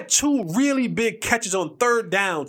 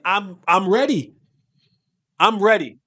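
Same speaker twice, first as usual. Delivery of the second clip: emphatic insistence; 4 dB louder than usual. Retold or imitated. Insisting on readiness.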